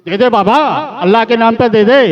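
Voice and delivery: a lightly hammed beggar's shout; loud begging. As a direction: repeat the alms cry as a pushy beggar. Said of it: "बड़ा तेज तेज बोल रहा था".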